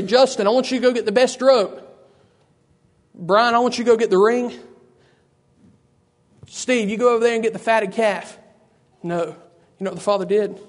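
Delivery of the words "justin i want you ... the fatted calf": raised, calling voice; mock yell. Preacher acting the father sending far-off men on errands, mock yell. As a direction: call out orders across a distance. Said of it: "not gonna yell back there".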